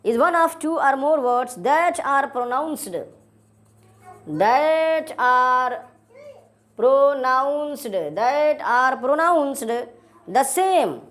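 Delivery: very slow, repeating each phrase for notes; slow dictation. Shown as a demonstration. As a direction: dictate it slowly, repeating key words. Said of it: "ये word आपने ध्यान रखना है".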